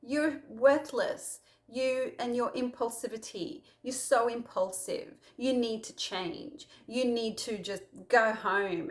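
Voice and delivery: slow, scolding harsh voice; a stern, contemptuous rebuke; berating. Retold or imitated. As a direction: tear into him, word by word. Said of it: "berate Peter and go".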